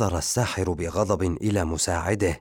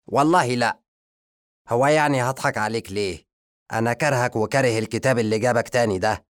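1 blunt rejection; 4 semitones higher, 3 dB louder, faster than usual. Acted. Wizard rejects zombie bluntly.

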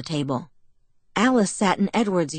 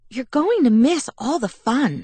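higher, lightly voiced pixie grumble; grumbling Alice; 7 semitones higher, 4 dB louder than usual. A narrator's reading. Alice to Bella and Edward from the doorway, grumbling. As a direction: complain like a sulky little sister. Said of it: "she grumbled".

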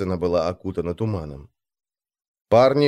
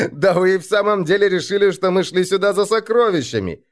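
high, quick, incredulous amusement; amused disbelief after guffaw; 8 semitones higher than usual. A narrator's reading. Jarl mocking his men's belief in treasure, amused. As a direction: talk on from a burst of laughter, pitched well up. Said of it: "и вдруг расхохотался".

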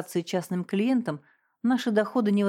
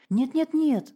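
high, hurried string of no's; rapid flustered denial; 8 semitones higher, slower than usual. A narrator's reading. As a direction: rattle off the denials in a panic. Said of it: "зачастила Регина".

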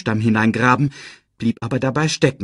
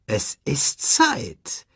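slow, drawn-out words with a smile, higher; smiling; 6 semitones higher, much slower than usual. A narrator's reading. Rafiki announces that it is time, smiling. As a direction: savour each word slowly through a smile. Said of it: "sagte Rafiki lächelnd".

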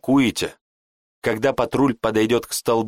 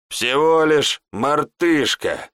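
relieved exhale; 6 semitones higher, much slower than usual. A narrator's reading. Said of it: "выдохнул Леон".

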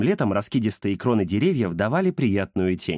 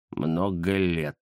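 низко и медленно, нехотя; нехотя признать; ленивый кот Захар; 6 semitones lower, 4 dB quieter, much slower than usual. Acted. (Захар нехотя отвечает)

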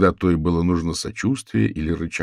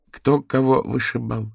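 puzzled question; 5 semitones higher than usual. Acted. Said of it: "не поняла Дейзи".

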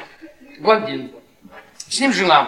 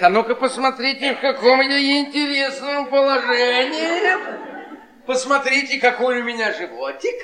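put-on coy girl voice; 4 semitones higher than usual. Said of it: "и говорит".

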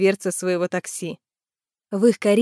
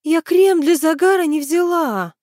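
higher, louder dismayed wail; moaning; 8 semitones higher, 4 dB louder than usual. A narrator's reading. Tanya forgot sunscreen, wailing higher. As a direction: moan it in dismay. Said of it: "простонала она".

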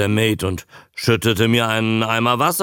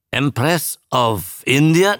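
searching memory, pitched up; tentative guess; 4 semitones higher than usual. Acted. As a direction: guess at it, unsure. Trying to recall a ship name. (tastend fragend)

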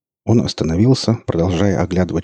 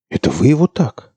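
higher, nervous frightened question; 6 semitones higher, 4 dB louder than usual. A narrator's reading. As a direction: ask it scared. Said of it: "спросил он с испугом".

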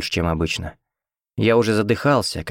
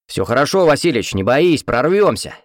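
upbeat encouragement; 5 semitones higher, 4 dB louder than usual. A narrator's reading. Hero reassuring the paralysed old man: upbeat encouragement. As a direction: cheer up the stricken old man. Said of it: "Придав голосу оптимизма".

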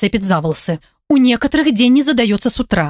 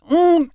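a higher closed-mouth mmm of frustration; mooing groan; 7 semitones higher than usual. A narrator's reading. Ирка в трубку подруге, раздражённое мычание. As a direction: groan through closed lips. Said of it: "замычала она в трубку".

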